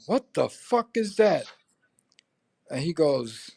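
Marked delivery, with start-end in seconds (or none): 0.1-1.5 higher and slow, stunned at the mirror; shocked question. Retold or imitated. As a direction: drag it out in disbelief. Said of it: "And I'm going".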